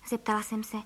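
usual speaking voice

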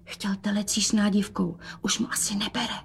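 soft worried whisper. Acted. Mother whispers to daughter about father's appetite. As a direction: drop to a secret whisper. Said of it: "A pošeptala".

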